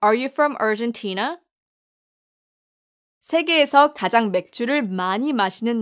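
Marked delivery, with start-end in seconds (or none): 0.0-1.4 slow example sentence. Shown as a demonstration. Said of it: "예문으로".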